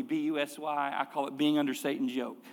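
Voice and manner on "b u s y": spelling busy letter by letter; B U S Y, each letter said apart; spelled out. Shown as a demonstration. Pastor spelling the word for the congregation, letter by letter. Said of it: "The word busy".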